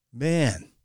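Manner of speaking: amused, half-laughing remark. Acted. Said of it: "he laughed".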